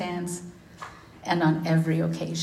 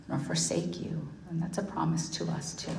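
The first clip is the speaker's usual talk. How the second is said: soft whisper; 7 dB quieter than usual. Acted. Closing scripture softly.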